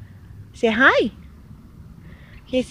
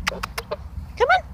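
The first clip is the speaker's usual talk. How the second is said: coaxing whisper; 7 dB quieter than usual. Real, not acted. Coaxing goose to come.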